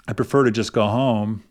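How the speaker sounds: "I prefer to just go home" with a slight questioning curve on "home"; questioning statement. Shown as a demonstration. Parent asking daughter if going home is okay, questioning. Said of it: "It kinda curves up at the end".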